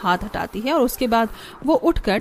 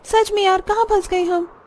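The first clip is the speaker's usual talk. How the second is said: high, exasperated wail to a friend; fed-up lament; 9 semitones higher than usual. Acted. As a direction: lament being stuck, pitched up. Daughters-in-law lamenting being stuck. (परेशान बहू का दुखड़ा)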